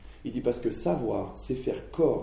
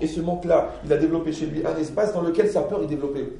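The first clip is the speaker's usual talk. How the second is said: pompous analyst; 2 semitones higher than usual. Retold or imitated. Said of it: "Tu dis".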